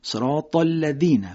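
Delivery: slow "الذین" with ذ near a د, no buzz; soft dh, no buzz. Shown as a demonstration. Teacher slowly giving the correct ذال without buzzing. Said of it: "سر زبان تیزی دو دندان جلوی بالا".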